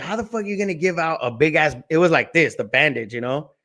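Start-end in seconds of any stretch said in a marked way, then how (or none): 0.0-1.7 mildly indignant mom, imitated higher; pissed mom. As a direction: lightly mimic a mother scolding the school. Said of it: "So she was pissed".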